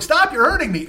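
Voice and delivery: put-on high frightened girl; little girl voice. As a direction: cry out like a small girl. Voicing the girl.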